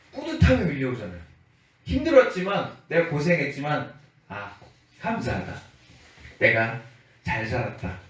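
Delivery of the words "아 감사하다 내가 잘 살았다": a touch of low, contented relief. Acted. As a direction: say it slowly to yourself, with pauses. Honest worker's contented inner voice.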